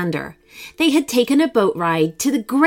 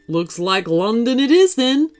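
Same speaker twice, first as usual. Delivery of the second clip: smiling. Acted. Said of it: "smiled the kangaroo".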